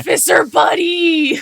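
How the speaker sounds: high-pitched excited cheer; delighted call. Acted. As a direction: sing out to a newfound buddy. Delighted at meeting a fellow artificer.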